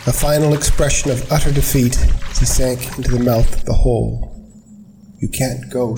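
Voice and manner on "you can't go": soft, hushed plea; whispered. A narrator's reading. Anna pleading with Chris in the ice, whispering. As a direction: breathe it, barely voiced. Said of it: "she whispered".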